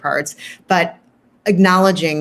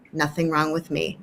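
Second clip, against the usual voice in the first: soft mantra; 7 dB quieter than usual. Shown as a demonstration. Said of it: "a mantra that you might suggest".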